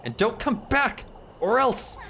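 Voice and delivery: slow, cold warning; slow menacing mistress. Acted. Elise silencing the neighbour, slow cold warning. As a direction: shut her up with menace.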